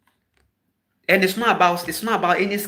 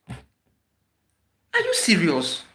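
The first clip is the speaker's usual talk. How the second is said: slow, stretched are you serious; drawn-out disbelief; much slower than usual. Real, not acted. Ranting at listeners, slow drawn-out disbelief. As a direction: let the disbelief drag out.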